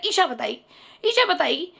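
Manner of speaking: smug, brushing it off, "ईशा" stressed with a rising lift; cocky attitude. Retold or imitated. The boyfriend dodging the aunt's question, smug and cocky. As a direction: say "ईशा बताएगी" like it's not your problem. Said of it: "उसके अंदर ये attitude था".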